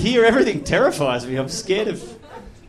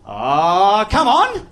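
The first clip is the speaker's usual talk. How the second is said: mock pleading; 4 dB louder, much slower than usual. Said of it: "you can go".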